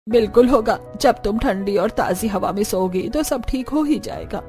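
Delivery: firm in-law laying down her view; insistent mother-in-law. Acted. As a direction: insist that you know best. (ज़िद पर अड़ी सास)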